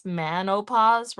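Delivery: "manopause" said slowly with "man" for "men"; man pronunciation. Shown as a demonstration. Joking with chat, slowly saying "manopause".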